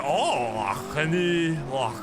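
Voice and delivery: a light, put-on Western Sydney accent. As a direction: lightly voice a Western Sydney lad asking a favour. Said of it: "Western Sydney".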